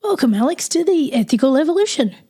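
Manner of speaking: real croaky, rough-edged voice. Real, not acted. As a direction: talk through a croaky throat. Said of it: "please excuse my croaky voice".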